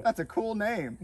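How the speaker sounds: lightly perky host line; demonstrated show line. Shown as a demonstration. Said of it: "when I say go, pause for a good second, go".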